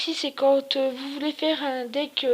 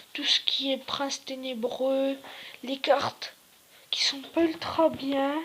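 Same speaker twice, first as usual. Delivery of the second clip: hoarse, half-whispered sick voice; sore throat voice. Real, not acted. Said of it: "j'ai mal à la gorge".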